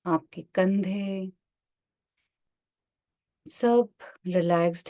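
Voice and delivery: unhurried meditation instructor, drawing out key words; guided meditation. Acted. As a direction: guide listeners gently into relaxation, one phrase at a time. Leads a body-scan meditation.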